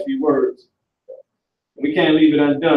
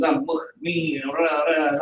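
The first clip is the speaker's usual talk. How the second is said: mock Arabic accent; 7 dB quieter than usual. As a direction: badly imitate an Arabic accent, dismissively. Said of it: "that you be hearing Muslims".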